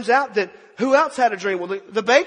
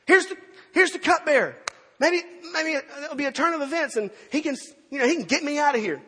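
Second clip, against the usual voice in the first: higher-pitched, eager acted hope; hopeful excitement; 6 semitones higher than usual. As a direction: voice a prisoner suddenly seeing a way out. Voices Joseph's hope of release.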